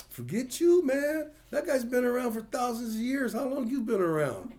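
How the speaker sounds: loud, high Hispanic pastor voice; heavy Hispanic accent. Retold or imitated. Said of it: "He's a real heavy accent of Hispanic".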